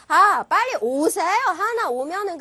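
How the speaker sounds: demonstrating an eager market seller; street vendor pitch. Shown as a demonstration. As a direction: call customers over like a vendor. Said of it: "장사꾼처럼".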